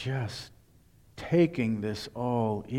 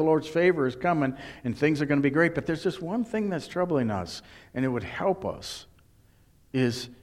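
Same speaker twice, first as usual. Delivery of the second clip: townsfolk demanding proof; 3 semitones higher than usual. Retold or imitated. Townspeople voiced asking for proof.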